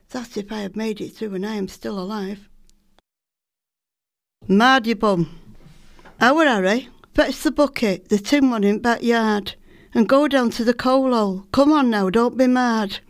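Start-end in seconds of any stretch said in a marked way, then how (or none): 4.5-13.0 loud scolding call. Acted. Mother scolding and ordering Harry.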